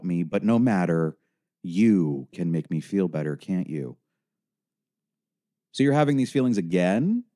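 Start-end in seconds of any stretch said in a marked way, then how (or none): 5.7-7.2 concerned counselor. A narrator's reading. Helpline voice.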